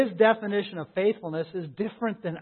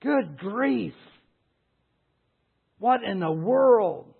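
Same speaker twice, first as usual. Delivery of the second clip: exasperated crowd; 4 semitones higher, slower than usual. Acted. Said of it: "the crowd is like".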